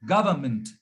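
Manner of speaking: government with a faint nasal N; barely nasalize the N in government; light nasal N. Shown as a demonstration. Teacher models government with a light nasal N. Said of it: "वो हल्की N है".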